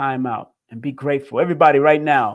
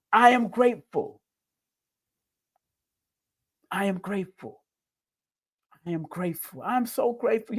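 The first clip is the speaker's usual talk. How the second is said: starts higher, then fades to a soft hush; mean it more each time, quieter; heartfelt repetition; 3 semitones higher, 3 dB quieter than usual. Shown as a demonstration. Host chants gratitude to Instagram viewers, fading softly. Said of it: "put it in the chat".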